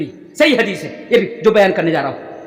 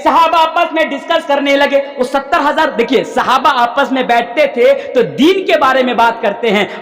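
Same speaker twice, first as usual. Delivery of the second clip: sustained, declaimed sermon recital; hadith preaching; 4 semitones higher than usual. Real, not acted. Preacher repeating the hadith to the congregation, declaimed preaching. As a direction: proclaim the sacred words, then explain them.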